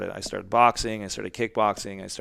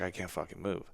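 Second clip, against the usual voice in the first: stunned quiet; 3 semitones lower, 10 dB quieter than usual. Retold or imitated. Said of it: "I was just like".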